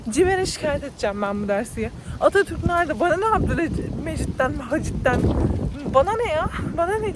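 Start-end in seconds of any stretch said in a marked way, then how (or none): 2.2-7.1 exasperated complaint. Real, not acted. Complaining about history class.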